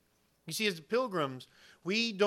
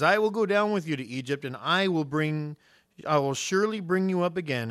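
loud, declarative scripture quote; raised-voice pulpit declaration; emphatic promise as God; 7 dB louder than usual. Acted. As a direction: proclaim the promise with force. Recites God's promise emphatically.

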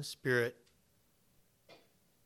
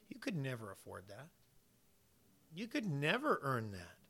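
softer, hushed God gently correcting; 6 dB quieter than usual. Acted. God answering the self-righteous believer, soft and firm. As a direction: quietly turn the boaster down, firm but hushed. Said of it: "And God says".

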